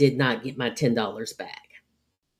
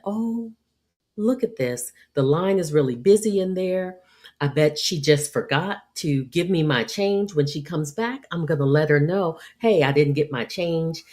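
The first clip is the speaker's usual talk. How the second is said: patient, calm; 2 semitones higher than usual. Retold or imitated. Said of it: "I'm patient and I'm calm".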